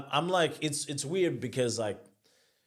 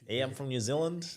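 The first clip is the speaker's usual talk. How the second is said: mock Kiwi accent; 4 semitones higher, faster than usual. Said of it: "I start to sound like".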